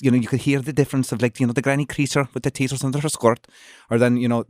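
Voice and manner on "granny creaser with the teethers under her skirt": lilting Cork-Kerry Irish accent. Shown as a demonstration. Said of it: "the Cork and Kerry".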